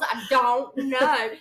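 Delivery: slow, loud helpless cry; exasperated, drawn out. Retold or imitated. Ends her exasperated quoted answer.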